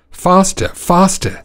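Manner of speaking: high, impatient master's urging. Acted. Master whipping his slow donkey, impatient urging.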